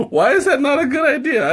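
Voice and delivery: high, laughing through the words; laughing question. Real, not acted. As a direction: ask it while cracking up.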